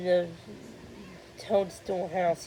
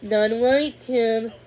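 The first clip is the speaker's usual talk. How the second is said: declaring; 6 dB louder, much slower than usual. Acted. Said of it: "Cornelius declared".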